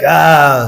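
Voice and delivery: a short, dismayed "ah" of disbelief; shocked noise. Shown as a demonstration. Lecturer showing students how to react, shocked "ah". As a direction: let out a small appalled gasp of "ah". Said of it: "make a noise, something like".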